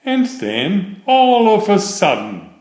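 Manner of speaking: sudden lift in pitch and volume on all of a sudden; spring the surprise on the listener; suspenseful build. A narrator's reading. Storyteller springing the cat's pounce, sudden excited rise.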